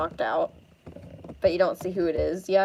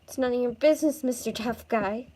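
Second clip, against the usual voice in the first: quick, raised-pitch snippy comeback; defensive retort; 4 semitones higher than usual. Acted. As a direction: brush off the rescuer sharply. Girl rebuffs her rescuer.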